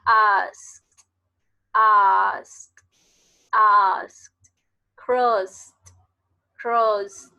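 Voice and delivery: "asked" and "crossed" said loud, ending on a sharp t; loud model words. Shown as a demonstration. Teacher drilling past-tense t endings for students, loud and crisp. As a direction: bite off the final t of "asked" and "crossed", unvoiced. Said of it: "sonar como una T".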